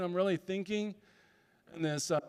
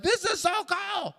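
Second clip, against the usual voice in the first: delighted awe; 13 semitones higher, slower than usual. Retold or imitated. Delighted reading own letter.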